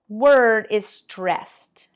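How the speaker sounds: ordinary delivery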